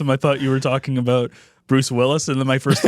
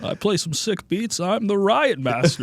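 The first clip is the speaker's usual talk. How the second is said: mock movie villain; 5 semitones higher, slower than usual.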